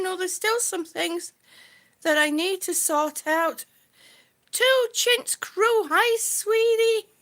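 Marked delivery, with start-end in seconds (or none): 4.5-7.1 high and slow, drawn-out welcome; delighted greeting. Real, not acted. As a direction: stretch the hello out fondly. Greeting viewers in live chat.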